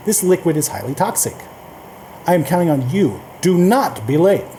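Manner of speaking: "highly toxic" and "Do not" said with firm stress; stress on important words. Shown as a demonstration. Reading bold-text examples to learners, stressed warning. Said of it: "we tend to stress them in spoken language".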